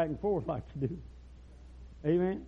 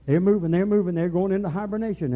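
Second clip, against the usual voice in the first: loud, raised-pitch urgent announcement; excited report; 4 semitones higher, 8 dB louder than usual. Retold or imitated. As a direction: call out the news as it breaks. Rangers' excited report of bears moving.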